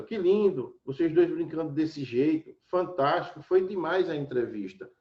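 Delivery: enthusiastic. Shown as a demonstration. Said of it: "tá mostrando a, o meu entusiasmo".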